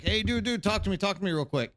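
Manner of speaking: high and fast, pressing them to answer; urgent pleading call. Retold or imitated. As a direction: hurry them, hey dude dude talk to me. Urging silent player to answer.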